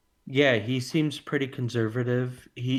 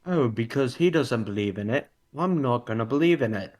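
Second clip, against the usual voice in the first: put-on British accent. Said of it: "can we get that British accent again?".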